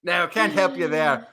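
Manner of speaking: lightly put-on British accent, chap; mock posh English accent. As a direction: pretend to be British. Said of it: "enough of a Danish accent that I sound fluent".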